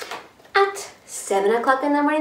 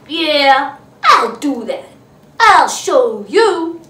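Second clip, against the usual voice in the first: huffy retort; 6 dB louder, slower than usual. Acted. Grouchy ladybug huffs off.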